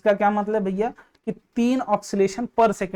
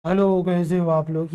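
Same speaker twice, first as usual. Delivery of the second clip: thick voice; 2 semitones lower than usual. Shown as a demonstration. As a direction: drop into a thick, heavy voice. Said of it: "ये बहुत मोटी आवाज में".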